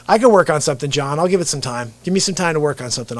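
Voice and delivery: ordinary delivery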